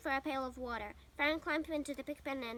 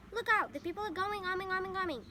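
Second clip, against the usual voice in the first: loud, higher alarmed call; gander shouting; 6 semitones higher, 6 dB louder than usual. A narrator's reading. Gander warns the animals, loud alarmed shout. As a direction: raise the alarm loudly. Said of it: "shouted the gander".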